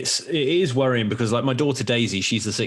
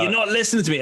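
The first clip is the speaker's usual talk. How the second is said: high-pitched imitated exasperation; mock shouty dad; 10 semitones higher, faster than usual. Dad retelling his outburst at the kids, mock exasperated. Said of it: "you're screaming back as well".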